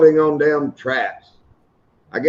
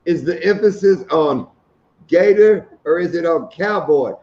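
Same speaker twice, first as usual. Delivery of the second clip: higher, deliberate quoted question; mock serious; 4 semitones higher than usual. Husband retelling his woman's question, mock serious. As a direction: imitate her deadly earnest question, pitched up. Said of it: "looks over at me so serious".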